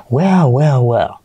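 lightly played film baddie, falling line; mock villain's knowing "well, well, well"; movie villain. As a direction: play the movie bad guy. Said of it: "Como el malo, el malo de la película".

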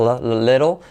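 "little" with the first L held and sounded; careful L at the start of "little"; clear initial L. Shown as a demonstration. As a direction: lean on the opening L of "little". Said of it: "al principio la pronuncias".

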